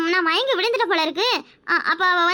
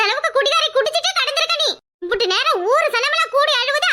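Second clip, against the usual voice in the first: mocking laugh; 6 semitones higher than usual. Mocking the drunk old woman.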